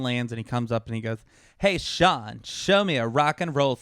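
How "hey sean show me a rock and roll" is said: a light put-on alien voice; lightly voiced odd alien asking. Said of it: "Why does the alien sound like that?".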